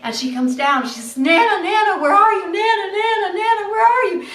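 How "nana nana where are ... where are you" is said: high, loud calls for grandma; calling out searching. Acted. Granddaughter looking everywhere for Nana, calling out high and urgent. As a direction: call through the house, high-pitched. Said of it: "looking for me everywhere".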